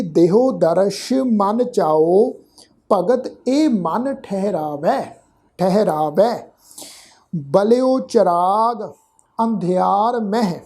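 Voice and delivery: slow, measured verse reading with drawn-out vowels; scripture recitation. Shown as a demonstration. Teacher modelling the verse for congregation, slow measured recitation. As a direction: recite word by word, lingering on long syllables.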